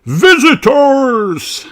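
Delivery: slow, high, drawn-out delighted cry; an old rabbit thrilled at company; Grampy Rabbit exclaiming. A narrator's reading. Grampy Rabbit greeting visitors, slow delighted cry. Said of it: "exclaims Grampy Rabbit".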